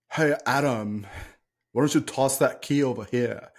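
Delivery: lightly mocking fake British accent; imitating a bad actor's fake British. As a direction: put on a hint of phoney British, stiffly overacted. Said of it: "Why are you talking like that".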